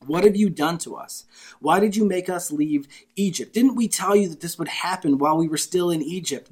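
loud, high, desperate accusing cry; frantic complaint. Acted. Panicked Israelites accuse Moses of leading them to die, loud frantic cry. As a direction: hurl the blame at Moses, nearly yelling.

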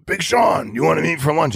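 high bro voice calling out to a friend; imitating buddy Kyle. Buddy inviting Sean to lunch, in a high bro voice. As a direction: mimic a laid-back buddy's invite. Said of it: "That's how he talks".

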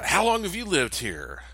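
lightly voiced nosy stranger; friendly stranger. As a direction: probe while sounding harmless. Stranger questions him.

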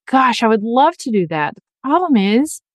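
imitating a doubtful listener. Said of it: "and you're thinking".

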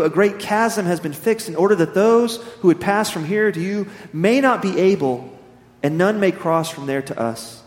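measured, solemn Bible reading; scripture reading. Acted. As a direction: read the parable with weight. Reads scripture parable aloud.

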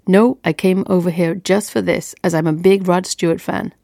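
lightly attempted American accent; amateur American accent. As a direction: have a modest go at sounding American. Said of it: "not sure that's a particularly great American accent".

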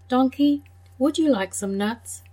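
lightly voiced chirpy squirrel; squirrel offering nuts. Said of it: "the squirrel said".

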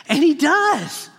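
triumphant slow proclamation. Shown as a demonstration. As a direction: proclaim it: And HE does.

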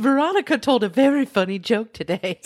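laughing, teasing. Real, not acted. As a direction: tease her while laughing. Teasing about a joke.

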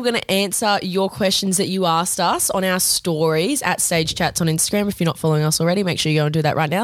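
rushed without pausing for air; all in one breath. Real, not acted. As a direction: race through it in one breath. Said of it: "That was all in one breath".

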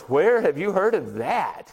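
slow, stretched-out disbelief; retold amazement, drawing the words out slowly; astonished question. Salesman amazed anyone knows the Lada, astonished.

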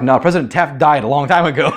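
imitating people, laughing through it; laughing mock reply. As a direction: laugh as you correct him. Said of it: "they're like".

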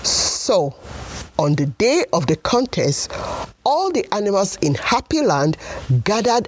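put-on lively storybook narration for kids; story narration. A narrator's reading. Storyteller reading to children, bright and lively. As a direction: tell it like a bedtime tale.

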